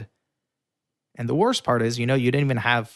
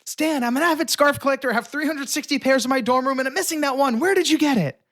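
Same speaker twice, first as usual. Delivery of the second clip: pitched up, hammed-up earnest pitch; mock seriousness; 12 semitones higher, 3 dB louder than usual. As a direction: bluff with a straight face. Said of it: "with all the seriousness I can".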